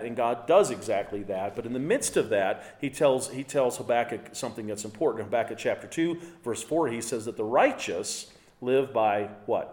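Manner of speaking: ordinary delivery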